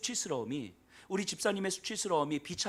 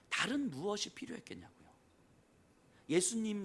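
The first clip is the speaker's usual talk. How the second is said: usual speaking voice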